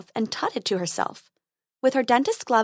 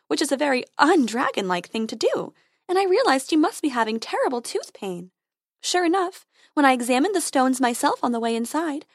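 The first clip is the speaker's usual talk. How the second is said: fairy voice; 3 semitones higher than usual. Acted.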